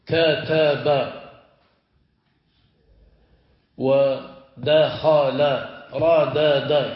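كتب ودخل ردد each drawn out slowly; slow teaching demo; slow syllable demo. Shown as a demonstration. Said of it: "كما تقول".

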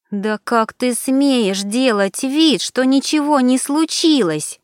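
high, slow, indignant; breathless with rage. Acted. Alina chokes with rage at Turanov, indignant. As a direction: choke on the anger as you speak. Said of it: "задыхаясь от гнева, прошипела Алина".

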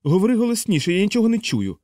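high, guileless yelled reply; Aarfy shouting. A narrator's reading. Aarfy to Yossarian, a high guileless bellow. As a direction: naive shout over the roar.

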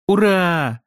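high, delighted hurrah; joyful cheer. A narrator's reading. Yao sees he sits by his friend, joyful cheer. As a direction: let out a happy cheer, pitch well up. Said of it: "издал радостный возглас".

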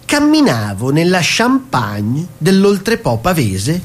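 slow, solemn poetic reading; poem recital. Acted. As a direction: recite it like a grand verse. Reading a comic wine poem. (lettura lenta e solenne di una poesia)

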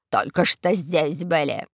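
slow, drawn-out sugary innocence; sweet eagle voice. A narrator's reading. Eagle answers Карло sweetly, drawing out the words. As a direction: feign innocence sweetly, very slowly. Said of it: "сладкий голос орла-хохотуши".

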